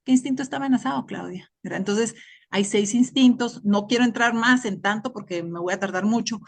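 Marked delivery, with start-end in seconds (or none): 0.0-1.5 self-questioning. Retold or imitated.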